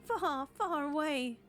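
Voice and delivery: mock-panicked old woman pleading; frightened mother. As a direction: push them away in fear. Mother warns of zombies.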